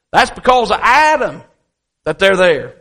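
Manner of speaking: retold blame, punched out emphatically; mildly mad grandfather. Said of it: "he's so mad at my Uncle Adam".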